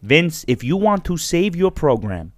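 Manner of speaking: lightly voiced pleading caller; a hint of an earnest adviser; Vince Russo. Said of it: "Vince Russo".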